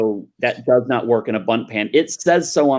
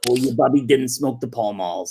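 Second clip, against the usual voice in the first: grandmother voice. Pretend. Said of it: "Jewish grandmother voice".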